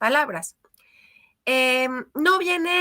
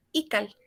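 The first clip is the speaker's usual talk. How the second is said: "Ical" with the weight on the first syllable I; teacher modelling "Ical" as I-cal, first syllable strong; stress on penultimate syllable; 3 semitones lower, 4 dB quieter than usual. Shown as a demonstration. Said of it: "el acento cae en la I".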